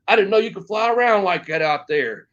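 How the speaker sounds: impressed veteran, lightly imitated; imitated veteran praise. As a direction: act out the big wrestler's approval. Imitates big wrestler praising him.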